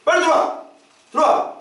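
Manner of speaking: urgent call to come back in. Shown as a demonstration. Leader calling straying members back inside, urgent calling out. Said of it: "이렇게 외치는 거예요".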